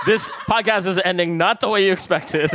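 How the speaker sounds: loud laughing remark. Real, not acted. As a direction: laugh through the words. Says it while laughing.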